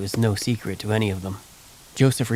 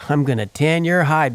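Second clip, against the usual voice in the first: angry father threat; 5 semitones higher, 5 dB louder than usual. Retold or imitated. Father threatens cussing son.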